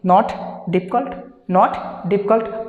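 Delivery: "not difficult" said very slowly, word by word; slow spelled-out drill. Shown as a demonstration. Teacher models "not difficult" slowly to the students. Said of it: "तो आप क्या कर सकते हैं".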